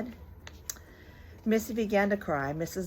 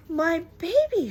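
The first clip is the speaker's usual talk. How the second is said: high, slow, louder cry of a horrified mother; shocked mother; 10 semitones higher, 7 dB louder, slower than usual. Acted. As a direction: gasp it out at the sight of the baby. Mrs Lane shocked at messy baby.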